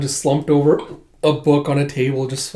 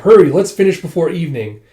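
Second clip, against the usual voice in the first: louder call to a work crew; mildly raised foreman's call; hurrying call; 2 semitones higher, 5 dB louder than usual. Retold or imitated. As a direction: urge the crew on briskly. Squad foreman hurrying workers along.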